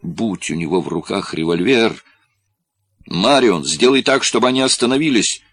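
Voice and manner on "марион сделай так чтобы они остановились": loud, rising, desperate pleading. Acted. Corlis begs Marion to stop them, desperate loud pleading. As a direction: beg her, climbing higher and louder. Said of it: "взмолился он".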